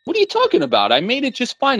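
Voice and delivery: put-on high, defensive kid protest; a boy insisting he built it right; high-pitched boy denying the fault; indignant brother. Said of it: "Arthur responds".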